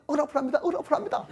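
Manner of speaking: high, half-laughing repetition; mocking repeated complaint. Preacher mocking rote complaining, high with a laugh. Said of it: "그냥 무조건".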